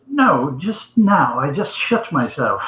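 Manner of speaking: slow, deliberate mock English accent; English gentleman. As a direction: draw out the correction in a put-on English accent. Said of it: "It was all in the accent".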